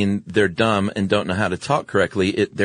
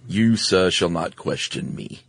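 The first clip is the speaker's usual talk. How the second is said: pompous British gentleman; slower than usual. Retold or imitated. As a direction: play a stuffy aristocrat looking down on someone. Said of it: "That sounded like William Randolph Hearst".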